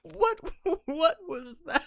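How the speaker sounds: high, squeaky disbelieving what; real shock at a weird sound; laughing incredulous question; stunned surprise. Real, not acted. Startled by a strange noise.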